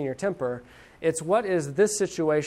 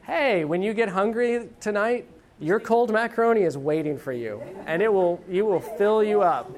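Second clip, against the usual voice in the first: teasing; 5 semitones higher, 3 dB louder than usual. Retold or imitated. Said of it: "and I'm like".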